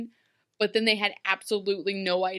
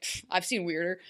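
jaded New Yorker; 4 semitones higher, 9 dB louder than usual. Retold or imitated. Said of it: "they'll be like".

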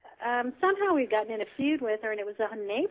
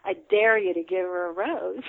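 snide; 6 dB louder than usual. Retold or imitated. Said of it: "very snidely".

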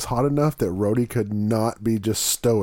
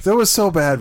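laughing; 5 semitones higher, 5 dB louder than usual. Real, not acted. Laughing recalling the chip.

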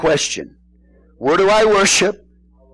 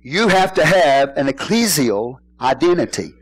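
over enunciating. Shown as a demonstration. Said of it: "Let me say that again".

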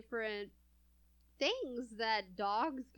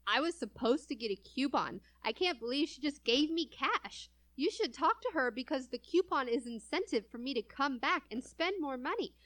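rising whiny complaining customer, getting higher; Karen voice; 7 semitones higher than usual. Retold or imitated. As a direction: build into an indignant Karen whine. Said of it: "Karen, go".

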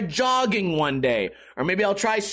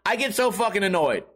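usual speaking voice

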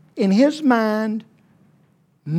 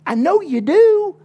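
teasing laugh, higher and louder; 10 semitones higher, 7 dB louder than usual. Real, not acted. Preacher teasing the ruler about his animals, laughing. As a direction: chuckle knowingly.

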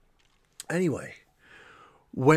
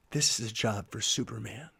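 low, hushed and much softer; quiet quote; 6 semitones lower, 10 dB quieter than usual. Retold or imitated. Daughter turns to dad during the film, quiet imitation. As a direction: say it quietly, imitating a child's aside. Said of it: "she turns to me quietly and says".

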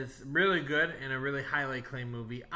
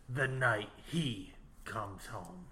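movie trailer voice; 3 semitones lower, 5 dB quieter, much slower than usual. Acted. Reads movie tagline dramatically.

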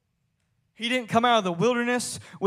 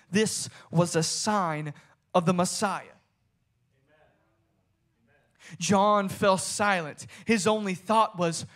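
measured, hushed-down storytelling from the pulpit; dramatic story narration. A narrator's reading. Preacher quoting an author on John at the Jordan, dramatic narration.

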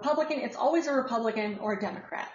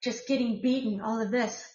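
put-on Russian accent. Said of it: "with a fabulous Russian accent".

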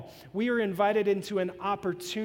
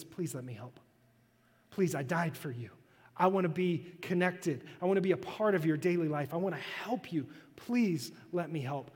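soft, gentle plea, quieter; tender pleading God; 2 semitones lower, 4 dB quieter than usual. Acted. Pastor voicing God softly begging to help his people, tender and quiet. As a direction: coax them gently to let you help.

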